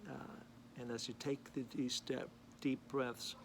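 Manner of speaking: unhurried meditation guidance with long pauses; guided meditation. Real, not acted. Man leading viewers to breathe in peace, calm guided meditation. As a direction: guide them gently into breathing, phrase by phrase.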